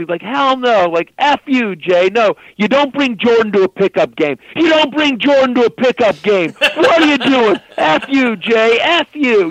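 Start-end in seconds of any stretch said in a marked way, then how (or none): 0.2-2.3 imitated cursing rant. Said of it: "he starts cursing". 2.6-4.4 high, heated complaint; imitated angry rant. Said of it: "he starts cursing". 4.5-6.5 even higher and louder, full outrage; escalated angry rant. Retold or imitated. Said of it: "he starts cursing". 6.6-9.5 very high, slowed, exasperated yelling; imitated furious outburst. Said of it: "he's just going off".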